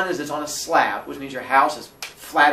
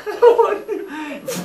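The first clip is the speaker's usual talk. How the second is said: slow high whining, laughing; slow whine; 7 dB louder, much slower than usual. Retold or imitated. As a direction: kid refusing to move toward the light, slow high whine. Whining reluctantly.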